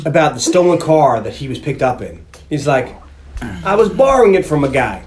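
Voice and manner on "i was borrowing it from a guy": lightly put-on, odd accent for Vinny; a hint of a weird, not-quite-New-York accent; strange Vinny accent. Recounting Vinny's car alibi to friends in a strange mock accent. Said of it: "doing a very strange accent".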